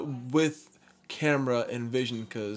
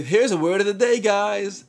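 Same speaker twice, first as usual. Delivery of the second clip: announcer voice; 6 semitones higher, 7 dB louder than usual. Retold or imitated. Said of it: "they would say".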